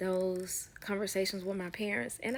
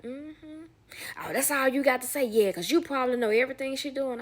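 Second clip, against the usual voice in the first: sassy comeback; 5 semitones higher, 5 dB louder than usual. Retold or imitated. Retold argument with him.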